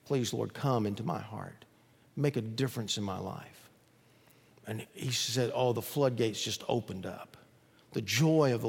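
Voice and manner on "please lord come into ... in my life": quiet plea. Retold or imitated. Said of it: "he cried out to the Lord".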